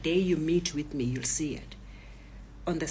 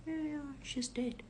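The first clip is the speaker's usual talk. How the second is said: high, soft, casual confirmation; calm daughter; 8 semitones higher, 9 dB quieter than usual. Retold or imitated. Daughter confirms sister's death to robbers, calm and soft. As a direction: confirm it quietly and evenly. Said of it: "My daughter is calm".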